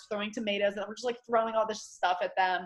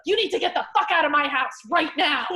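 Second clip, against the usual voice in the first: retold anger; 6 semitones higher, 5 dB louder than usual. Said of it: "she's like".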